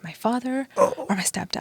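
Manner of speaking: hushed unvoiced whisper. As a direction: breathe the question out with no voice. Torn choice voiced in retelling.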